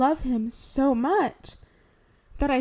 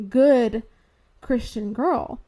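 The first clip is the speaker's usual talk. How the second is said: ironic so-called label, louder on good; air quotes; 5 dB louder, slower than usual. Retold or imitated. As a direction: say it in scare quotes, a touch mocking.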